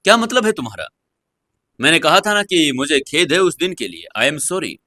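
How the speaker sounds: mildly hurt and bitter reply; a touch bitter. Acted. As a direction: let a little bitterness creep in. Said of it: "आवाज थोड़ी सी कड़वी हो गई".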